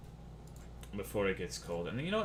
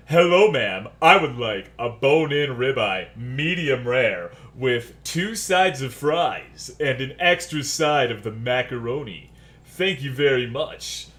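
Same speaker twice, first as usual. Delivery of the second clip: slow, exaggeratedly courteous ordering, a bit louder; overly polite order; 4 dB louder, slower than usual. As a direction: ham up the polite customer voice. Mock polite restaurant order.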